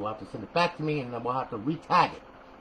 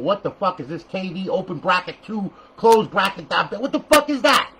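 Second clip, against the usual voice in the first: mock outraged machine voice, rising higher and louder; confused Xbox; 4 semitones higher, 6 dB louder than usual. The Xbox yelling at a badly named file, mock outraged. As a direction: play the baffled console as it rejects the file. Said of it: "and the Xbox is going".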